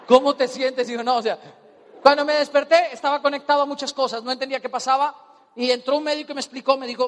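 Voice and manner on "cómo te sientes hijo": doctor entre risas. Retold or imitated. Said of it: "un doctor con barba larga".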